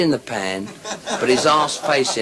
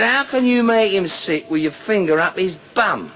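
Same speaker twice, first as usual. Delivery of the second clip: higher, louder disbelief; incredulous challenge; 8 semitones higher, 4 dB louder than usual. Acted. Policeman challenging the sailor's excuse, loud and incredulous. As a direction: demand an explanation, pitch raised.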